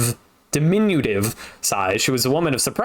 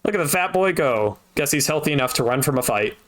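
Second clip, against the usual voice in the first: mocking old woman; 3 semitones higher than usual. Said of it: "barked out a single laugh".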